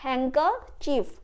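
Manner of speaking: "हैंकरचीफ" slowly, in two parts, no d; silent D, slowly. Shown as a demonstration. Teacher modelling the word for learners, "हैंकरचीफ" slow with silent D. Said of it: "बोलेंगे हैंकरचीफ".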